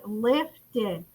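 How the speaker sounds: "Lifted" in two even beats; syllable by syllable. Shown as a demonstration. Teacher asks class to count, "Lifted" softly in two beats. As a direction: say "Lifted" softly, measured, lif, ted. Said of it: "How many syllables is that one".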